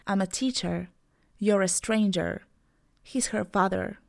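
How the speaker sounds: American accent, "teacher", "stranger", "father" ending in a clear R; American English. Shown as a demonstration. Teacher models American pronunciation for learners, R pronounced. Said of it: "In American, I would say".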